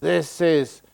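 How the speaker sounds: slow, grand announcement of the hall's name; lightly hammed-up vain benefactor; mock donor boast. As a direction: proclaim it like a donor plaque, hammed up. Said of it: "they want a big sign up".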